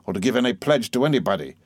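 a hint of a cold, stern stepfather; measured, unbending warning to the aunt; stern Murdstone. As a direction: lay down terms, lightly voiced.

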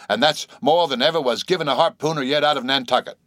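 put-on eager old captain calls out; flustered old captain. Excited old captain Peleg.

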